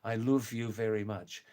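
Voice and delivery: a light Scouse accent, love said as luv with an oo vowel. Shown as a demonstration. Showing viewers how Liverpool people talk, in a Scouse accent. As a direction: demo Scouse: "love" rounded toward "luuv". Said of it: "That's Scouse accent".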